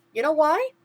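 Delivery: chirpy sidekick asking what's wrong; a hint of cartoon mouse; lightly voiced mouse. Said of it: "Timothy asked".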